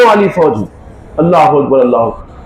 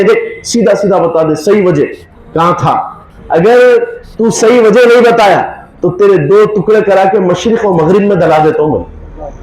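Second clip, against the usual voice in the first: stern, raised threat, easing at the end; Hazrat Suleman's wrathful majesty; 3 semitones higher than usual. Retold or imitated. Suleman threatens the missing hoopoe, sternly angry. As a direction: demand the truth with mounting royal anger. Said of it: "حضرت سلیمان بڑے جلال میں تھے".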